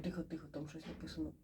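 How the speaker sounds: very soft, low undertone; barely voiced, low murmur; hushing. Real, not acted. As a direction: hush your companion under your breath. Hushes companion in the lift.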